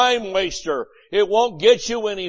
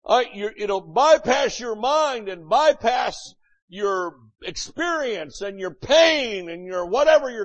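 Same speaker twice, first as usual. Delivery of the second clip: preaching; 2 semitones higher than usual. Acted. Preacher repeats the point.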